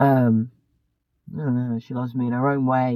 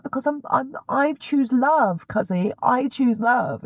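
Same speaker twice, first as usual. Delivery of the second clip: earnest self-quote; 11 semitones higher, slower than usual. Retold or imitated. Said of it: "And I was like".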